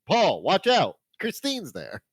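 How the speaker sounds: high-pitched mock warning yelled at a screen; mock yelling. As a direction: yell a joking warning, pitched well up. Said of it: "I kept yelling at my screen".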